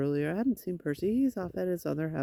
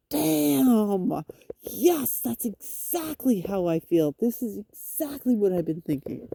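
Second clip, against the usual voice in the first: 1 imagined viewer agreeing; 3 semitones higher, slower than usual. Pretend.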